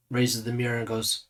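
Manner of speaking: ordinary talk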